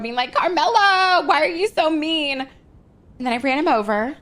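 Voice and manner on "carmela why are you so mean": higher, whiny imitation of a crying brother; mock crying. Mocking Tugs crying in the road, whiny high imitation. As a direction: whine it like a fake sob, half-hearted. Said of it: "He starts fucking crying".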